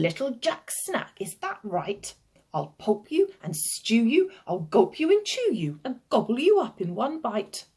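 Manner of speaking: lightly voiced menacing giant, playful; greedy giant. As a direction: relish each threat with bouncing emphasis.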